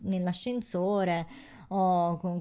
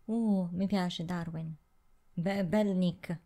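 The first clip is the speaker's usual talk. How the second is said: put-on Neapolitan accent. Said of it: "perché parlo con l'accento napoletano adesso?".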